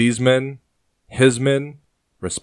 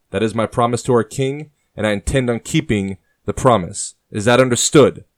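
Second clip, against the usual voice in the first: loud, higher commander addressing troops; rally the men with authority; commanding officer speech; 4 semitones higher, 5 dB louder than usual. Acted.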